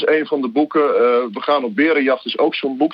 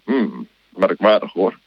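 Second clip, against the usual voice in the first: lower, slow, musing monster voice; a big beast mulling it over; low, slow Gruffalo puzzling aloud; puzzled Gruffalo; 6 semitones lower, slower than usual. Acted. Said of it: "Echt fantastisch met al die stemmetjes".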